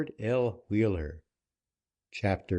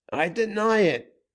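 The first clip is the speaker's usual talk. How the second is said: gasped denial; 10 semitones higher, 4 dB louder than usual. A narrator's reading. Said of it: "was the gasped response".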